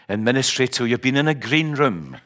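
ordinary talk

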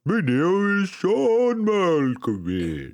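slow Malkovich voice rolling the r's; rolled r. Retold or imitated. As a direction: roll the r's, very slowly. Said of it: "roll those R's ... Malkovichian accent".

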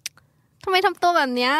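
high, irritated challenge; calling out a friend's attitude, irritated. Shown as a demonstration. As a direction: snap back at the friend's tone. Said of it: "น้ำเสียงทำไมต้องขนาดนั้นเนี่ย".

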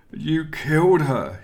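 high, loud, drawn-out accusing wail; grieving wail. A narrator's reading. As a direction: wail the accusation in anguish, slowly. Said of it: "he wailed".

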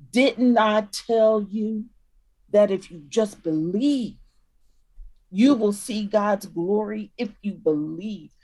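put-on a parent gently scolding a child who keeps forgetting; like talking to a child. Jesus speaking to them like a parent to a child. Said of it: "clapping her hands like you do with a child".

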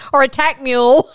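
laughing. Real, not acted. Laughing fit over attack mule.

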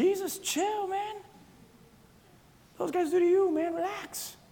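a listener softly telling Jesus to relax; mock soothing. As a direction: hush Jesus like a friend. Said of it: "You look at this and say".

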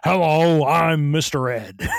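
slow, loud talking horse greeting; Mister Ed voice. Acted. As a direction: drawl it out like the TV horse. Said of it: "Hello, Wilbur".

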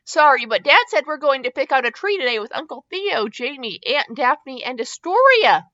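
put-on a child cheering over the plans; lifted, eager voice. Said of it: "Leo cheered".

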